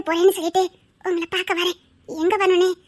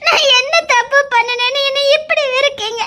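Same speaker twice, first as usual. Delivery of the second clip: tearful plea; 3 semitones higher than usual. Acted. Crying protest.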